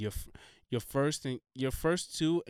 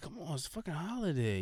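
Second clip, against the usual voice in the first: put-on higher, softer Spanish-accented coaxing; 5 semitones higher, 5 dB quieter than usual. Friend pushing a drink on him, imitated Spanish accent. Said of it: "You know, Spanish accent and all that".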